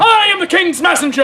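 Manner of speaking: stage herald's proclamation; crying out. Acted. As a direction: announce yourself to the whole crowd. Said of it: "cries out".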